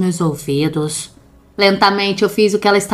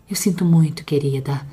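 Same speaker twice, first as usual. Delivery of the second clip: pleading shout; 4 semitones higher, 4 dB louder than usual. Acted.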